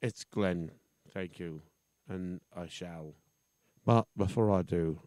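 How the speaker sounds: put-on lightly done affected British-ish accent; a hint of a silly posh accent. Radio guest thanking host in silly accent. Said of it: "I wonder if I can drop this silly accent".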